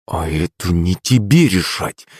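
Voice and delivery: slow, grudging retort through the teeth; a measured, cold grandmother's reply. A narrator's reading. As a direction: spit it back slowly. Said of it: "процедила в ответ бабуля".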